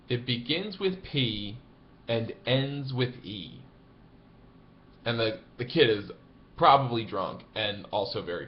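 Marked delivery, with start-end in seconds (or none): 0.1-3.6 slow, deliberate, spelling it out; dry caddie hint. Retold or imitated. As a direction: lay out the riddle slowly and drily. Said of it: "and says".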